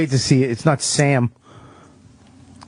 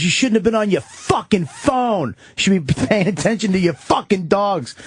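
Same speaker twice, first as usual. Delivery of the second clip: homeless guy; 8 semitones higher than usual. Retold or imitated. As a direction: lecture him like the homeless guy, pitched way up. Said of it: "And he goes".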